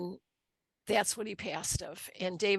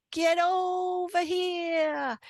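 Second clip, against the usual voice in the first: loving call; 11 semitones higher, 5 dB louder, much slower than usual. Retold or imitated. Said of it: "in a very loving manner".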